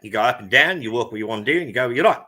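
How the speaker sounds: twangy Australian, going up and down; Australian accent. Shown as a demonstration. Co-host showing how easy Australian is, twangy Australian accent. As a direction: put a lot of Australian twang in it. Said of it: "put a lot of twang in your voice".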